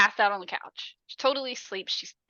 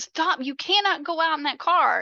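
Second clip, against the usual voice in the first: mock furious yell; 7 semitones higher than usual. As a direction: hurl the words like the teddy bear. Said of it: "throws it and was like".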